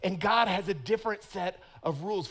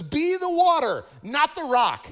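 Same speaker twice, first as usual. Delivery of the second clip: higher, louder hammed-up kung fu master; movie sensei; 7 semitones higher, 6 dB louder than usual. Pastor hamming up his sensei's advice for effect, mock sensei. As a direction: intone it like a wise old sensei. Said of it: "He goes".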